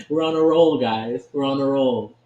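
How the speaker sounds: loud, pumped-up cheer to the audience; excited. Real, not acted. Streamer telling viewers about a winning run, excited. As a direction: hype up your winning streak. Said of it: "I sound a little bit excited".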